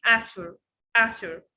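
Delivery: "after" with the t almost dropped; forgotten T. Shown as a demonstration. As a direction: let the t in "after" go. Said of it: "You can forget it".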